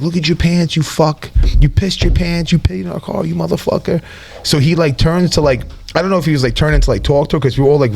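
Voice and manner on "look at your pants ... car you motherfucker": mock angry yell. Lisa yelling at drunk kid.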